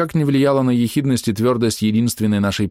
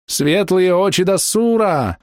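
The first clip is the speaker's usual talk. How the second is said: wailing healer's invocation; 11 semitones higher, slower than usual. Acted. Healer wails a prayer over the tank. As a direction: cry out to the god. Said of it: "возопил Док".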